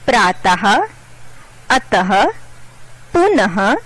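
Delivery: प्रातः, अतः, पुनः each ending in a clear "ha"; visarga "ha" endings. Shown as a demonstration. Teacher demonstrating visarga to children, clear "ha" closing प्रातः, अतः, पुनः. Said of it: "ह की ध्वनि निकलती है".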